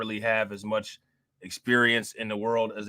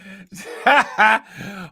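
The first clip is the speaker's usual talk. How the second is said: loud, high burst of laughter; real, hearty laughing fit; 7 semitones higher, 6 dB louder than usual. Real, not acted. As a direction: crack up at what you heard. Reacts to the played clip.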